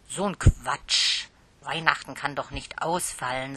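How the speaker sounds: lauter, empörter Ausruf, dann gemäßigter; empört losschimpfen über den Unsinn; entrüstet. Acted. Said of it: "sagte Tante Susi entrüstet". (Tante entrüstet über die Frage des Kindes)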